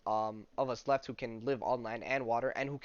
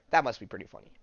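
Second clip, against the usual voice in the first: quick, chuckling repeat; chuckling afterthought; laughing; 3 semitones lower, 3 dB louder, faster than usual. Real, not acted. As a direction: say it through a laugh. Laughing at the scene.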